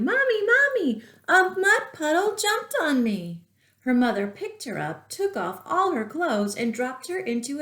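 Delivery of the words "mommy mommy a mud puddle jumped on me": put-on high, loud child's cry for mommy; yelling. A narrator's reading. Little girl yelling to her mother after the mud attack.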